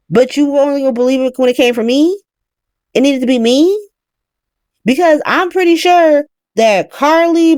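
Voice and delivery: heated ranting retelling; mock angry rant. Daughter ranting at her mother, heated. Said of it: "And Willow's like".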